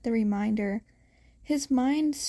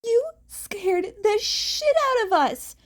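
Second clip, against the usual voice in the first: scolding yell; 9 semitones higher than usual. A narrator's reading. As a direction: tell him off hard. Mirako scolding.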